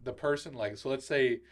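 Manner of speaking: off mic, faint and distant; speaking away from the microphone; far from mic. Real, not acted. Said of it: "I can't hear you in the mic".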